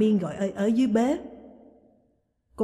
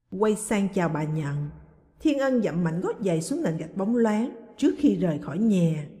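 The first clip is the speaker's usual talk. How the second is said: ordinary delivery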